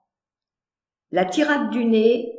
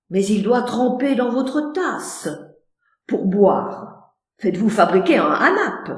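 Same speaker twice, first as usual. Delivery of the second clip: friendly. Acted.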